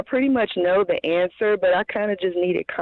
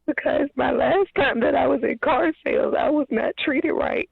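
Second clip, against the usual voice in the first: higher, strained voice near tears; holding back tears while explaining; emotional; 6 semitones higher than usual. Real, not acted. Caller telling the host about past mistreatment, near tears. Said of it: "I'm getting emotional".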